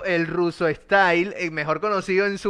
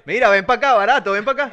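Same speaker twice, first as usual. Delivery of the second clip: mock street vendor; 4 semitones higher, 5 dB louder than usual. Mock salesman hawking the artist.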